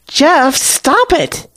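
very high-pitched cry to stop; alarmed plea. A narrator's reading. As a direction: call out urgently to halt a fight. Woman tries to stop a beating.

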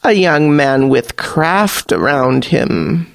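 put-on an old sea witch reading the pirate; Hag Queen.

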